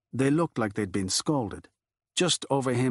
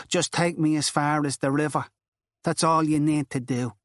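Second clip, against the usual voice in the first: higher, louder urgent begging; desperate plea; 5 semitones higher, 3 dB louder than usual. Acted. Girl begging Furlong to take her to the river, desperate. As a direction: beg him like it's your only chance. Girl begs to be driven away.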